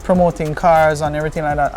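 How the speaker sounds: ordinary delivery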